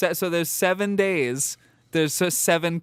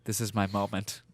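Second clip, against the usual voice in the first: low husband voice; 7 semitones lower, 6 dB quieter than usual. Pretend. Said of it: "He goes".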